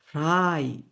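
ফ্রাই with a drawn-out "ai"; German pronunciation demo. Shown as a demonstration. Teacher models German word for free, ফ্রাই stretched. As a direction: hold the vowel of ফ্রাই. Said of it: "এটা উচ্চারণও করতে হয়".

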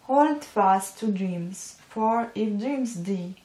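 slow, careful poem recital; poem reading. Real, not acted. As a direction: read the verse out slowly, word by word. Reads a poem aloud.

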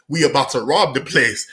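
low, matter-of-fact retold announcement; calm. Robbers telling a kid their plan, calm. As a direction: state it calmly, no excitement. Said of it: "said so calm, bro".

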